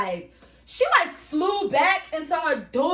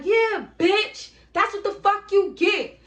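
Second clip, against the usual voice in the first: gloating; 8 semitones higher, 4 dB louder than usual. Retold or imitated. Gloating over beaten woman.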